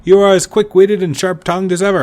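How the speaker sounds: hint of a booming jovial host; lightly voiced jovial big man. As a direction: flatter the shopkeeper with mock grandeur. Voicing jovial Goldschmidt.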